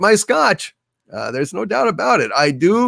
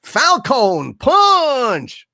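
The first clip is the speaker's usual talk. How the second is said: high, drawn-out mock battle cry; slow, hammed-up "Falcon Punch" yell; 9 semitones higher, 3 dB louder, much slower than usual. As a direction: stretch both words like a game hero's attack call. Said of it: "It makes me wanna say".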